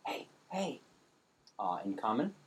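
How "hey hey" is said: high whispered goblin call. A narrator's reading. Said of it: "a whispered".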